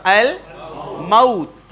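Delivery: very slow al-mawt, diphthong aw; الموت with fatha on meem. Shown as a demonstration. Teacher demonstrates Quranic form, very slow. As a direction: stretch الموت as al-ma-ut. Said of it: "میم کے زبر کے ساتھ".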